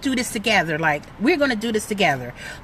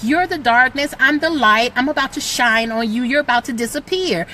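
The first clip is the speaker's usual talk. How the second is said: defiant; 3 dB louder than usual. Pretend. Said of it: "this is what we gotta tell fear".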